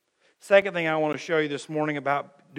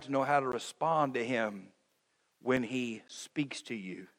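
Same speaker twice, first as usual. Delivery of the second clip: whisper; 5 semitones lower, 10 dB quieter than usual. Acted. Sudden drop in a sermon.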